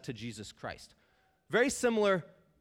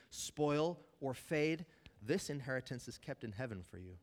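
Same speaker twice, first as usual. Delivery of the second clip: scripture reading. Acted. Pastor reads First Peter to the congregation, reverent scripture reading. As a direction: read the passage with reverence.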